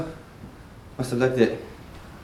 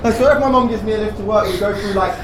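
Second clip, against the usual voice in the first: laughing; 3 semitones higher, 4 dB louder than usual. Acted. Laughing nervously in van.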